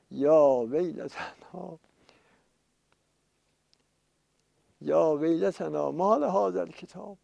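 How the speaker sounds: mildly wailed cry of woe, words drawn out; imitated lament. Sinners crying out on seeing their record of deeds, mild imitated wail. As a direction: act out a touch of lamenting.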